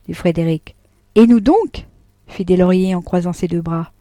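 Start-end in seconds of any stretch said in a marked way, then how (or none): 1.2-1.9 mock defiance. Deslauriers retorts, arms crossed.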